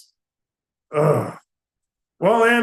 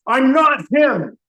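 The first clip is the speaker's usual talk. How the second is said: irritated blurt; 3 semitones higher, 4 dB louder, slower than usual. Acted. Another angry interruption.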